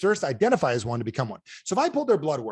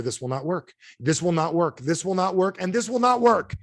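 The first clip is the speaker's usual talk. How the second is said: "will not work" repeated, climbing higher each time; building insistence; 4 semitones higher than usual. Real, not acted. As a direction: start level, build to a high, emphatic last "not work".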